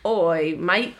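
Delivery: lightly put-on Australian accent; a mock Aussie greeting; Australian Rey. Co-host answering a jab at the impression, mock Australian accent. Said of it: "like Australian Rey".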